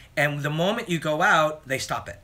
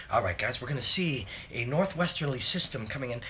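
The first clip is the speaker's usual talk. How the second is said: lightly voiced weatherman cadence; a hint of the TV weather forecaster; 2 semitones lower, 6 dB quieter than usual. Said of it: "weatherman cadence too".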